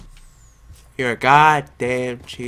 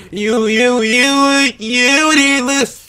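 higher, louder stammering yell; shrill accusation; 8 semitones higher, 4 dB louder, slower than usual. Real, not acted. Gamer accusing a silent teammate, angry yell. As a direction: jab the repeated you at them.

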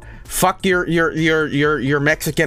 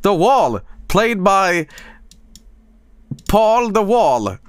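mock announcer; 5 semitones higher, slower than usual.

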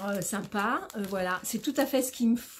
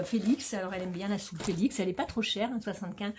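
ordinary talk, nothing marked

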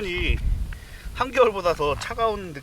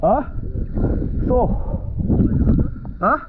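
much higher, louder cry; surprised; 10 semitones higher, 9 dB louder than usual. Real, not acted. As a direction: exclaim at how tiny it is. Catches a very small fish.

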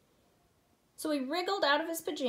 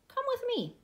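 high, gentle invitation; kindly rabbit coaxing a child; 11 semitones higher than usual. Acted. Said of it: "said the rabbit kindly".

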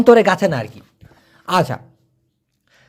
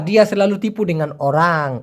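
very slow, careful Malay; slow Malay model phrase; 3 semitones lower, much slower than usual. Shown as a demonstration. Teacher modelling Malay phrase, very slow. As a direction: spell it out slowly in Malay. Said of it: "এভাবেও কিন্তু বলে যে".

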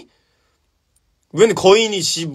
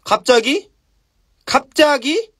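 drawn-up, higher questioning tease; suspenseful build-up; 8 semitones higher, much slower than usual. Acted. Storyteller teasing the sudden turn, suspenseful. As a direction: hang it in the air, rising.

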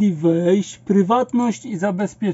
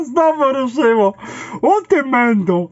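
higher, scolding the program; mock scolding; 5 semitones higher than usual. Real, not acted. Scolding the restarting process.

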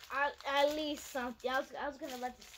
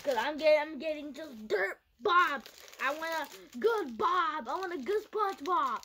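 whiny crying; 5 dB louder than usual. Real, not acted. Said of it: "just screaming and laughing".

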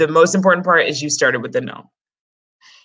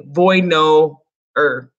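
slowed wrong example; 3 dB louder, much slower than usual. Shown as a demonstration. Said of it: "you would not say".

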